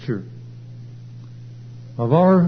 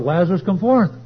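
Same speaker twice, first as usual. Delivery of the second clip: crying out; 4 semitones higher, faster than usual. Retold or imitated. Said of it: "Jesus cried out".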